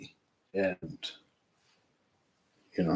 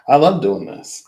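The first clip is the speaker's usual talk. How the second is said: higher and louder, gushing; excited exclaim; 6 semitones higher, 7 dB louder than usual. Real, not acted. Telling viewers she loves the readings, louder and higher. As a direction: blurt it out with delight.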